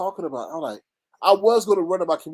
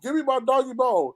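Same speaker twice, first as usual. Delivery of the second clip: lightly voiced dog, pitched up; a hint of an eager dog demanding its reward; talking dog; 6 semitones higher than usual. Vlogger playing the drug dogs wanting their bone, lightly voiced. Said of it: "The dog be lined up".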